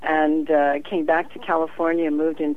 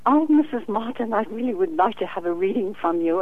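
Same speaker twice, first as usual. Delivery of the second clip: lightly voiced polite British lady, higher at the start; a hint of a sweet client asking a favour; British woman; 4 semitones higher than usual. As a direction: psychic quoting a client who wants a free reading, lightly voiced. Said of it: "a British woman, and she said".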